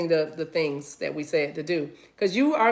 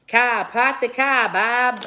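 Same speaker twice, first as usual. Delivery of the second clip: slow, louder bad Boston accent; horrible Boston accent; 4 semitones higher, 5 dB louder, much slower than usual. Shown as a demonstration. Host hearing Boston in a reading, horrible Boston accent. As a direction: do a badly faked Boston accent. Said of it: "I know that's a horrible accent".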